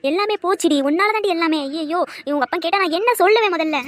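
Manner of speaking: loud, hurt scolding with a sharp edge; angry scolding. Acted. Mother loudly scolds daughter for bringing shame. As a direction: berate her for shaming the family.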